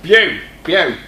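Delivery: loud, hammed-up Australian twang on View; a jokey, failed go at an Aussie voice; bad Aussie accent. Teacher mocks coding with a bad Aussie accent. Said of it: "I can't do an Aussie accent".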